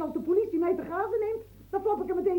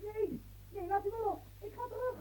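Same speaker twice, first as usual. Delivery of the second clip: struggling protest; 5 semitones higher, 7 dB quieter than usual. Acted. Woman struggles against being held.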